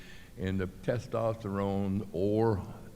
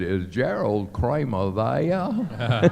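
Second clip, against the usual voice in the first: slow, louder teasing question; Charlie mocking Gerald; 4 semitones higher, 6 dB louder, much slower than usual. Charlie Kruger whispering behind Kramer on stairs, slow taunt. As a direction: breathe it slowly right behind him. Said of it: "and he said".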